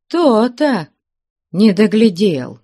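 put-on high, grumbling old wife. A narrator's reading. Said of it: "ворчала".

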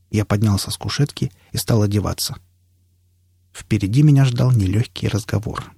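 ordinary delivery

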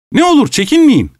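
high, strained "Ne olur çekinmeyin"; host near hysteria, urging the guest on; frantic plea. Acted. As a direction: beg with mock hospitality at breaking point. Host's frantic climax.

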